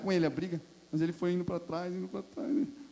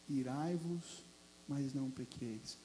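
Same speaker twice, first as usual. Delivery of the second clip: soft refrain; 4 semitones lower, 11 dB quieter, slower than usual. Shown as a demonstration. Soft quoted scripture refrain.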